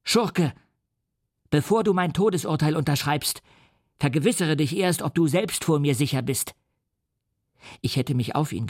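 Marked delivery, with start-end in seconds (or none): 0.0-6.5 shouted. Acted. Victor jumps up and shouts back at the monster in rage. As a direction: hurl it at him, the force easing by the end. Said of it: "Ich sprang auf und schrie".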